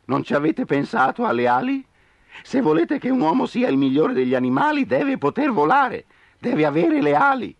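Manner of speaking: high and loud, pressing; insistent owl. Acted. Owl insists man must fly, high loud. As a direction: preach the need for wings. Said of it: "gridò Gufo".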